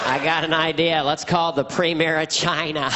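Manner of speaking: exaggerated presidential voice; folksy president coaxing a guest; comic send-up of a president; George Bush impression. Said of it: "My George Bush impression was".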